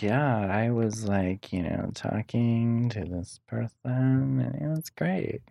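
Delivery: slow, soft, spaced-out imitation; stoned drawl. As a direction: mimic a dazed stoned friend. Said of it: "Catherine's like".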